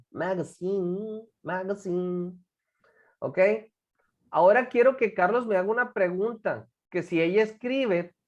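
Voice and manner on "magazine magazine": "magazine" repeated slowly, last syllable held; pronunciation drill. Shown as a demonstration. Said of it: "nos equivocamos en la pronunciación".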